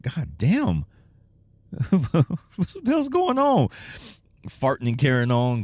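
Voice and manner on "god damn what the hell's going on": high, slow, laughing bewilderment; laughing disbelief. Retold or imitated. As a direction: laugh through the puzzled question. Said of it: "I'm like".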